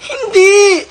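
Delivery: high shouted no; sharp shout. Acted. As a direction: bark out the no. Acting out a shouted no.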